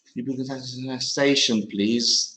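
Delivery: brisk, clear model sentence; model correction. Shown as a demonstration. Teacher modelling the fixed sentence for the student, brisk. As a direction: read the corrected line quickly and cleanly. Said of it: "Much simpler".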